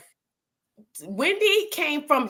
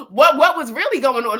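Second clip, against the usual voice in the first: louder, laughing through the words; laughing question; 2 semitones higher, 7 dB louder than usual. Real, not acted. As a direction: chuckle as the penny drops. Musing on rumors, laughing.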